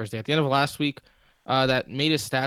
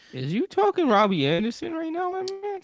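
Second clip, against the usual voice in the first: mock street voice. Teasing co-host in put-on voice.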